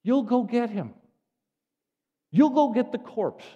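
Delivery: loud, high-pitched disbelief; incredulous challenge. Acted. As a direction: question it in loud, comic amazement. Incredulous reply to Mary's plan.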